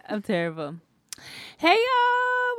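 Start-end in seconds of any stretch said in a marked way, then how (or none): 1.6-2.6 greeting with a cracked voice; voice cracking. Real, not acted. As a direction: voice cracks up high. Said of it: "my voice just cracked like that".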